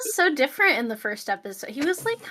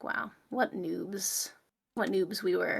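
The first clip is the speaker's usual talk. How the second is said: slow breathy whisper of embarrassment; 3 semitones lower, 10 dB quieter, much slower than usual. Retold or imitated. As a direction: hush it out, drawn out and cringing. Looking back at old recordings.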